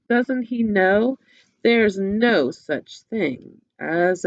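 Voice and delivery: storybook voice with characters; reading to children. Acted. Teacher retelling the story to children with puppets. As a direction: tell the tale with puppets.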